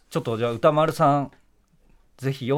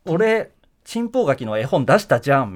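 Mikawa jan example; 5 dB louder than usual. Shown as a demonstration. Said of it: "みたいな".

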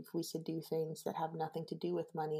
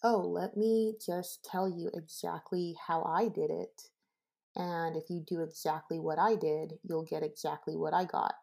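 louder, know-it-all guru voice; smug expert; 5 dB louder than usual. Retold or imitated. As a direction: play the self-satisfied success guru. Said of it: "they wanna turn around and say".

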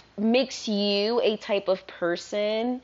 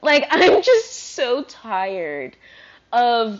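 slow, louder, laughing exasperation; tired outburst; 6 dB louder, much slower than usual. Real, not acted. Venting louder about the people she talks to. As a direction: push the same complaint out harder with a laugh.

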